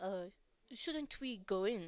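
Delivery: put-on Russian accent. Voicing a character, Alex, urging the group inside: Russian accent. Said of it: "He's Russian. I'm sorry".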